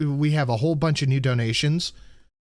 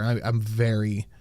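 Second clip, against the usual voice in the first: tired; 2 semitones lower, slower than usual. Real, not acted. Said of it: "I'm kinda low energy today".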